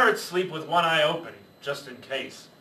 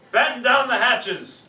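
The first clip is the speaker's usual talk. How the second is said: loud, slow command shout; storm command; 7 semitones higher, 6 dB louder, slower than usual. Acted. Pirate captain orders crew in the storm, loud slow shout. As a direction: bellow it over the wind. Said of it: "Braidbeard shouted".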